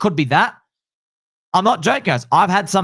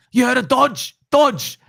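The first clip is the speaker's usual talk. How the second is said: higher, hyped-up imitation of the barber; 9 semitones higher, slower than usual. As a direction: pitch it up like a mate pushing Dogecoin. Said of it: "He goes".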